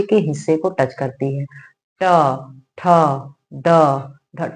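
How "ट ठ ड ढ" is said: ट ठ ड ढ each struck sharply, tongue curled back behind the teeth; retroflex sounds demo. Shown as a demonstration. Teacher shows students how retroflex letters strike the palate, sharply. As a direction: strike ट, ठ, ड, ढ with a sharp ringing tap. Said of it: "टंकार".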